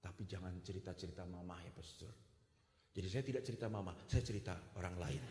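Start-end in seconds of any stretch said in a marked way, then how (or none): 0.0-2.1 low, soft secretive plea; hushed confession. Retold or imitated. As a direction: beg him to keep it secret. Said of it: "si perempuan ini ngomong". (memohon lirih agar dirahasiakan)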